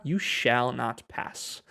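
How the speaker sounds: slow, drawn-out wizard command; a lightly voiced Gandalf, dragged out slowly; slow Gandalf quote. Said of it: "Como dice Mae de la película". (cita lenta de Gandalf, apenas actuada)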